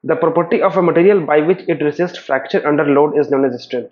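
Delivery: very slow, deliberate definition read; slow dictation reading. Acted. Teacher dictating a definition to students, slow and measured. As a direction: read it out word by word for notes. Reads definition slowly from slide.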